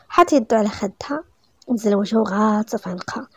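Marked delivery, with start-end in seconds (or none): none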